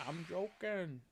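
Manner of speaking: high, drawn-out "joking"; imitating sketch catchphrase. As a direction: echo the gag in a put-on high voice.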